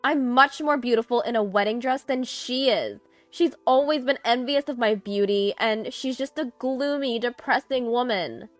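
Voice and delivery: loud, high-pitched boastful rant; ranting tirade. A narrator's reading. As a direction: keep the tirade going, full of spite. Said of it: "her tirade didn't halt".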